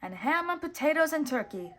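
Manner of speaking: daydreaming excitedly. A narrator's reading. Mickey dreaming of food.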